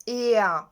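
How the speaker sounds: «еа» as eh gliding into ah; AIR sound demonstration. Shown as a demonstration. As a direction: model «еа» as one glide, no r. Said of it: "R читаються як". (показова вимова «еа»)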